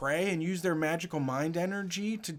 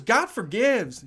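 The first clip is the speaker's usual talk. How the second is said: high, loud, stretched-out retort; mock someone proclaiming it slowly; imitated pious retort; 7 semitones higher, 6 dB louder, slower than usual. Woman retorting to protester in religious argument, mock-pious.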